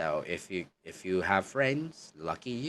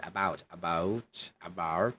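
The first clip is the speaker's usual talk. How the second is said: Irish accent demo. Shown as a demonstration. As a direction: say about the Irish way, with a flattened vowel. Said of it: "that's how Irish say it".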